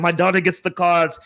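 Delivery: lightly imitated foreign-accented English; imitated heavy accent. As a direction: retell it with a touch of foreign accent. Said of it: "with his heavy accent".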